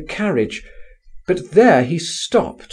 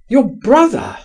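higher, louder startled question; crying out; 14 semitones higher, 7 dB louder than usual. A narrator's reading. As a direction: blurt it out in alarm. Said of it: "I cried".

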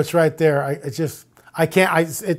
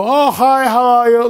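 bright, higher old man's hello, lightly voiced; Fred's greeting; 5 semitones higher than usual. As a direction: mimic the old man's cheery hi, a bit higher. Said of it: "like that".

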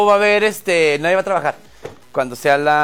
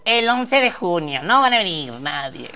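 mock official's voice. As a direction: imitate the head of government proclaiming.

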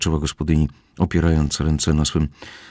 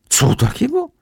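very high-pitched shocked squeal; horrified; 4 dB louder than usual. A narrator's reading. Housekeeper hears the cellar needs insulating, horrified. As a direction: squeak it out in alarm. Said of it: "Znowu przeraziła się gospodyni".

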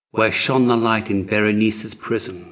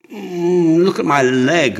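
pained moan, a touch louder; 8 semitones higher, 6 dB louder than usual. A narrator's reading. Prince moaning to the physician about his leg. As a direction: moan through the pain of the leg. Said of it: "moaned Horus".

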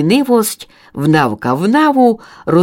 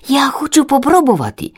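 eager chick; 9 semitones higher than usual. Acted. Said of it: "відповіла Добровка".

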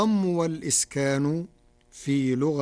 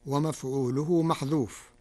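usual speaking voice

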